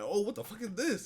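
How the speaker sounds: high, loud laughing outburst; laughing disbelief. Retold or imitated. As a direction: laugh it out in shock. Reacting to an accidental dub.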